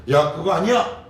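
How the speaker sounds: loud, high cry cutting him off; sharp interruption. Acted. God cutting off Peter, loud and urgent. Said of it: "라고 얘기합니다".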